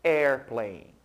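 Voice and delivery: airplane said the English way, for students to repeat. Shown as a demonstration. Teacher models airplane for students to repeat, in English pronunciation. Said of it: "Mais uma vez".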